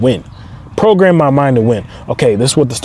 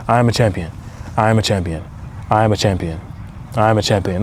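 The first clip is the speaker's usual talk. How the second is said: whispering to himself; 7 semitones lower, 7 dB quieter than usual. Retold or imitated. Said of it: "I will start whispering this to myself".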